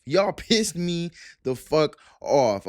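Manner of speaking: slow, emphatic "pissed", breaking into a laugh; real annoyance. Real, not acted. Vlogger ranting at new Crawford fans, slow and annoyed. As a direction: lean on "pissed" as the anger boils over. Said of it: "I'm getting pissed off now".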